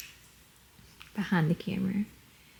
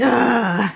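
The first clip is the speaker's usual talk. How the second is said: loud, forceful grunt; strong Russian grunt; 3 semitones higher, 6 dB louder than usual. Shown as a demonstration. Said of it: "They're, like, strong and".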